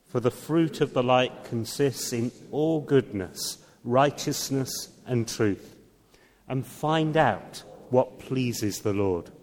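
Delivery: slow, measured reading of the verse; scripture reading. Acted. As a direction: read it aloud slowly with the congregation. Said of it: "Do you want to read this one with me?".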